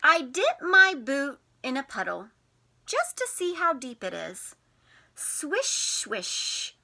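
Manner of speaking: lightly animated read-aloud; reading to children. A narrator's reading. Teacher reads the spring book to the class, gently. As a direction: read it gently to little ones.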